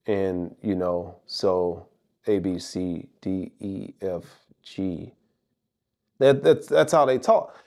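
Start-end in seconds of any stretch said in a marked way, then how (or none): 0.0-5.1 lower, softer, emotionless recitation; mock the copycat creators with no expression; expressionless creator voice. Shown as a demonstration. Imitating YouTube creators who talk with no expression, low and soft. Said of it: "they just talk just like this".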